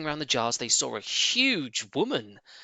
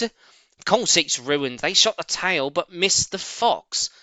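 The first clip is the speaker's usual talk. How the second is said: a touch of the bossy farmer's wife, louder at first; lightly voiced stern mistress; 6 semitones higher, 5 dB louder, slower than usual. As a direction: mistress explaining from upstairs. Mrs Bean voiced.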